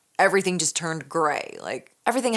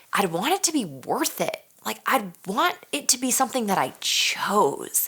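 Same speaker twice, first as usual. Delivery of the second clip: retold inner voice; 6 semitones higher than usual. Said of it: "I'm thinking".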